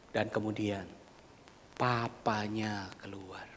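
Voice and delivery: slow hushed whisper. Acted. Preacher whispering as the father steps out. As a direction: let it fall to a whisper.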